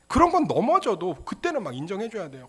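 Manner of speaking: normal talking voice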